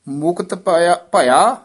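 ਭਇਆ held, then a small stop; slight pause after ਭਇਆ. Shown as a demonstration. Teacher shows where to wait, pause after ਭਇਆ. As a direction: linger a moment on ਭਇਆ before going on. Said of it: "ਥੋੜ੍ਹਾ ਜਿਹਾ ਠਹਿਰਾ ਦੇ ਦੇਣਾ".

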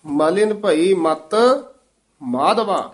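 ਮਲਿਨ ਭਈ ਮਤ, then a short pause before ਮਾਧਵਾ; pause after ਮਤ. Shown as a demonstration. Teacher showing the student where to pause, with a pause after ਮਤ. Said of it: "ਇੱਥੇ ਵਿਸਰਾਮ".

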